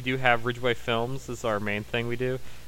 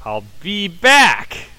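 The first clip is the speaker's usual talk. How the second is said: slow, loud, high hammy Terminator; hammed-up Terminator voice; 7 semitones higher, 10 dB louder, much slower than usual. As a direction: stretch it out as a loud cartoon robot. Terminator catchphrase in turn.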